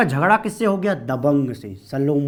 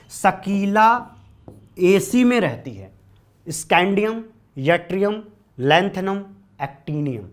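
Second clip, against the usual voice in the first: slow emphatic mnemonic; 3 semitones higher, slower than usual. Shown as a demonstration. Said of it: "तो देखिएगा".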